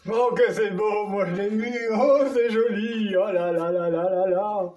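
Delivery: overjoyed gasps opening the box; excited. Real, not acted. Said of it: "tellement énervé".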